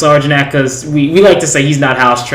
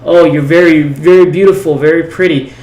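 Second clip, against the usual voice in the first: saying it again a bit louder to be understood; repeating it more clearly; 2 semitones higher, 4 dB louder than usual. Retold or imitated. Telling the waitress again, a bit louder, since she didn't understand. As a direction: spell it out a little louder, leaning on very. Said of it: "she didn't understand what I meant".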